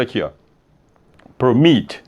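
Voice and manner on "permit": permit said per-MIT, firm final syllable; stress on second syllable. Shown as a demonstration. Teacher repeating the example, permit stressed on MIT. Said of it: "Então, você fala permit".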